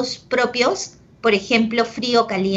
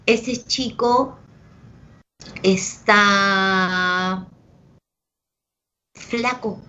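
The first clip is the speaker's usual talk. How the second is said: slow drawn-out example; much slower than usual. Shown as a demonstration. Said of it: "si yo te digo".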